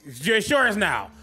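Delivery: high, loud, eager shouting; excited Brendan. Acted. Brendan begging to pet the wolf, shouting high and eager. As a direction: bounce with glee over the animal. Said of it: "Brendan's just like".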